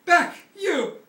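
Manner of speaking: high, loud commanding yells; shouting to keep a dinosaur back; lion tamer shout. Acted. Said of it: "Regis was shouting".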